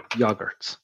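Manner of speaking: yogurts with a short yo as in yonder; other way of saying it. Shown as a demonstration. Host mimicking how some listeners say yogurts. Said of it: "or as some of you will call them".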